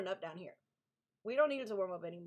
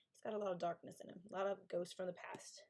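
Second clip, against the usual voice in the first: softer, half-whispered aside; hushed warning; 4 semitones lower, 5 dB quieter than usual. Real, not acted. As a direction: lower your voice for the dark part. Warning about dark book content.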